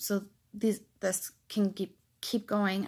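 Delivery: stuttering, stammering speech. Speaking to viewers at the end of a video, stuttering. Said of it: "I'm sorry with my stuttering".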